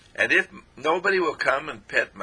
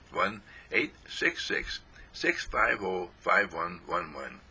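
slow phone number; 3 semitones lower, 4 dB quieter, slower than usual. Real, not acted. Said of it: "number repeated slower".

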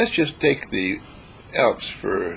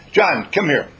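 coach calling; 5 semitones higher, 6 dB louder than usual. Acted.

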